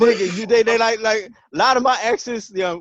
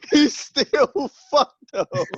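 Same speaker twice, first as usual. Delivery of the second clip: slow, drawn out through laughter; laughing tease; 5 semitones higher, slower than usual. Real, not acted. Friend ribbing the storyteller, laughing slowly. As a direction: savor the punchline while cracking up.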